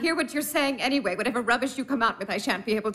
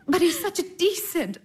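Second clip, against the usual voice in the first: giggling through the words; a light laugh breaks into the line; 8 semitones higher than usual. Acted. To her sister, laughing while praising the Baron.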